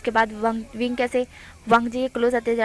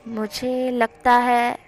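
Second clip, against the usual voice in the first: slow drawn-out line; much slower than usual. Acted. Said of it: "वो इस तरह से बोल रहा था".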